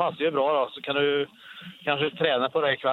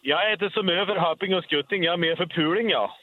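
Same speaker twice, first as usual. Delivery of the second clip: funny line in broad Värmland dialect. Shown as a demonstration. Caller repeating his joke for the host in Värmland dialect. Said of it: "Ta det på värmländska".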